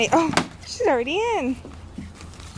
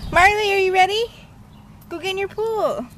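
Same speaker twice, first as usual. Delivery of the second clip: high, loud coaxing of the dog; excited dog talk; 8 semitones higher, 4 dB louder than usual. Real, not acted. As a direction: pump the puppy up for her pool. Egging the puppy on.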